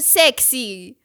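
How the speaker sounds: put-on drawn-out suggestive Italian-accented word; mock sultry voicemail voice; Giovanni. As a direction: imitate a lecherous Italian caller. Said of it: "dann irgendwas auf Itali".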